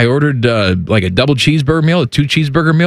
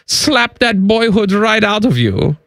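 put-on German accent. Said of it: "Hi, Wolfgang".

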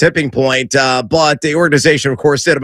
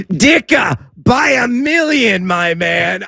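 Chicago superfan voice; 7 semitones higher, much slower than usual. Pretend. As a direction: belt it like the SNL Chicago superfan. Answering in SNL superfan voice.

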